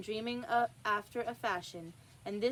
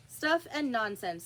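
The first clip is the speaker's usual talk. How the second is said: said loudly; 3 dB louder than usual. Acted. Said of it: "said Alice loudly".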